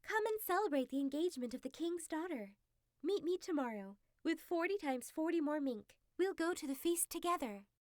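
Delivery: a crafty fox talking him into it; a hint of a persuasive fox; sly fox. Fox voiced in story.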